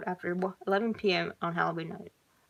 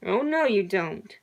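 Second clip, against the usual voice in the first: menacing yell; 6 dB louder, slower than usual. Acted. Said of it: "the man yelled".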